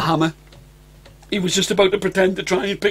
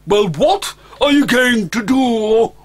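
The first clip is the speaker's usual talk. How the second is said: demanding dragon mother; 6 semitones higher, 4 dB louder, slower than usual. Acted.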